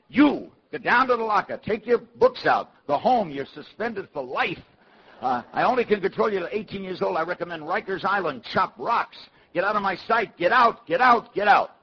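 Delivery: high, loud tirade of an enraged principal; screaming in rage. Retold or imitated. Beyond-ticked principal screaming at kids in his office, high furious rant. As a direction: rant it high, building to a shout. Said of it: "his veins are popping and screaming".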